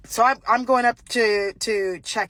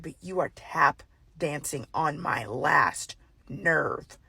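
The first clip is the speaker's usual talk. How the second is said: stern warning; 4 semitones lower, 3 dB quieter, much slower than usual. Retold or imitated. Losing patience with Karen.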